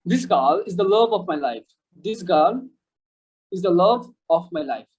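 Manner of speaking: very slow, "love" stressed; slow demo sentence. Shown as a demonstration. Teacher reads a slow model sentence to students. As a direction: spell it out slowly for learners. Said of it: "So আমরা এক্সাম্পলে যাই".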